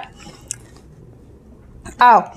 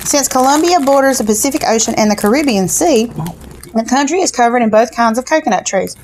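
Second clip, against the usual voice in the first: booklet read-aloud. Acted. Reads the snack booklet aloud.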